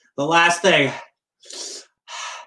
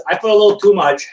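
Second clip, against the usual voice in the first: loud; 4 semitones higher, 5 dB louder, faster than usual. Real, not acted. Burst of pain.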